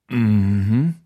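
playfully sultry hum; a hammed-up seductive murmur; mock erotic purr. Narrator teasing his partner through the wall, mock sultry. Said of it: "Ich versuche mich an einem erotischen Brummen".

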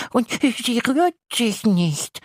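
high, slow insistent monster voice; the little monster laying down the rules; bossy little monster. Acted. Monster voice continues. (kleines Ungeheuer, hoch und bestimmend)

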